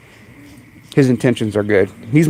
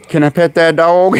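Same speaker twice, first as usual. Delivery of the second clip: higher, put-on begging voice; higher mimicked plea; imitated catchphrase; 4 semitones higher than usual. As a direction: ask it like an excited catchphrase.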